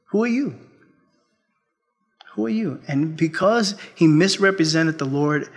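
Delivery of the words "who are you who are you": pointed rebuke. Retold or imitated. The Lord rebuking the pastor.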